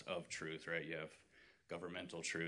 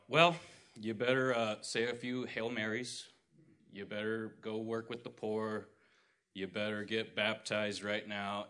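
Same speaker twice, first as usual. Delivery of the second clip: mock stern preacher; 3 semitones higher, 5 dB louder than usual. Retelling what Christ did not say, in a hammed-up stern demand. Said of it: "Christ didn't go".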